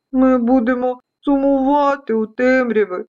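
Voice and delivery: tearful storybook dust specks; put-on weepy little voice; mock sobbing. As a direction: whimper a sad goodbye. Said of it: "схлипували деякі пилинки".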